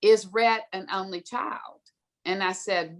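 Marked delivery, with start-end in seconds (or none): 0.0-1.8 lightly imitated British headmistress; very British accent. Headmistress questioning parents, imitated British accent. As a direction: put on a touch of British accent. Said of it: "in a very British accent".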